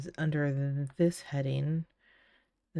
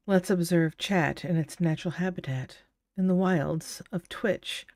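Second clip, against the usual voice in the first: nature documentary. Pretend. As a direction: narrate it like a wildlife film. Mock nature documentary narration.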